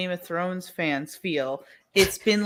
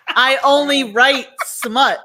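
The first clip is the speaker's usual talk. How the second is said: laughing confession; 4 semitones higher, 9 dB louder, slower than usual. Real, not acted.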